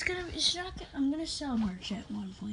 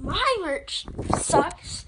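slow indignant disbelief; 5 semitones higher, 4 dB louder, much slower than usual. Real, not acted. Retort to brother's insult.

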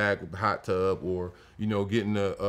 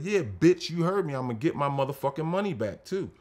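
defiant taunt; 4 semitones higher than usual. Retold or imitated. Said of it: "I said".

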